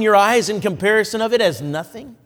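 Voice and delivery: measured pulpit reading of the Lord's words; scripture reading. Acted. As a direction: declaim the prophecy with weight, letting each saith the Lord land. Reads Haggai's prophecy aloud.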